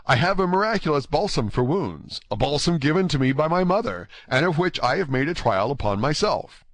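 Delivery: lively, polite Gascon youth; eager, courteous D'Artagnan. Acted. Narrator voices D'Artagnan's offer.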